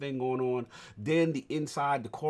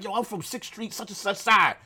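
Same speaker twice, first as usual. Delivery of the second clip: higher, building to a big shout with a laugh; mock tough boast, shouted louder as it goes; loud street boast; 8 semitones higher, 11 dB louder than usual. Player acts out his street character threatening goons, loud boast.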